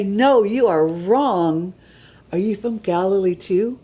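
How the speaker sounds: lightly voiced contempt, dragging out No, you are wrong; mock slam. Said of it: "they dehumanize Nicodemus to say".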